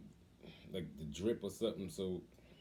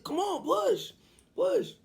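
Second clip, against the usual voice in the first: high, loud cheering-on; retold urgent urging; 8 dB louder, slower than usual. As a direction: yell it like a dad coaching labor. Father urging her through labor.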